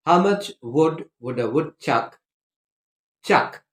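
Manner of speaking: deliberate, carefully separated words; measured tongue-twister pace. Shown as a demonstration. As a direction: model the tongue twister clearly, unhurried. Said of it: "read it at the correct pace".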